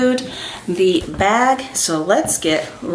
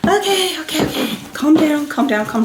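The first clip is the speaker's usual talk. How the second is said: high, giddy self-soothing; giddy excitement; 8 semitones higher than usual. Real, not acted. Vlogger trying to calm herself, giddily excited. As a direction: talk yourself down in a high voice. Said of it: "I'm getting so excited".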